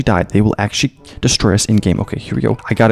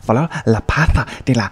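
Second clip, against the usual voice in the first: mock Spanish. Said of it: "I don't know Spanish".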